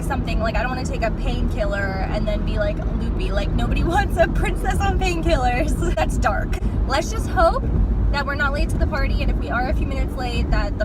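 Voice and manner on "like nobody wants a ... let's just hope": laughing. Real, not acted. Joking about painkillers while driving.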